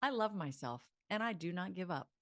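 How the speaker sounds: a sassy little toss of the head; sassy self-affirmation; sassy attitude. Shown as a demonstration. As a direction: say it with sass, a touch defiant. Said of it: "that sassy little attitude I just did".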